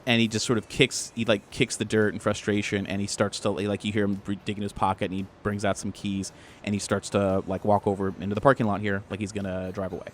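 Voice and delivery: low, soft scene setting; game master narration. A narrator's reading. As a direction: narrate quietly, letting the mood sink.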